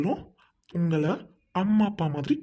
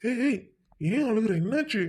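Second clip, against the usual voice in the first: higher, urgent questioning; alarmed concern; 5 semitones higher than usual. Acted. Young man to weeping girl, asking what happened, alarmed. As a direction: break in with startled concern. Stranger alarmed at her crying.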